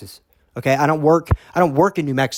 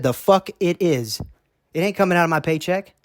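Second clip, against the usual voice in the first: defiant refusal; 5 semitones higher than usual. Retold or imitated. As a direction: dig in and refuse. Retold argument with the boss.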